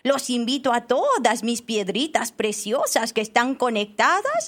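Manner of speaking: put-on gushing children's-theatre rock addressing the audience; hammed-up elderly rock, pitch leaping on key words; old talking rock. Shown as a demonstration. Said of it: "voy a proceder a hacer la voz de".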